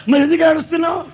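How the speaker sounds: put-on half-shouting at the boy as if scolding; mock shout. Pastor demanding why the caught boy is crying, mock shouting.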